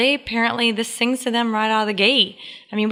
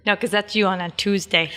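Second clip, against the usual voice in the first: ordinary talk, nothing marked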